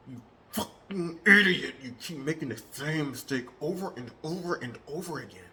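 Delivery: insulting. Shown as a demonstration. Demonstrating an insulting tone at a coworker. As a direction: snap at the coworker, then grumble. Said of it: "example of tonality versus pitch".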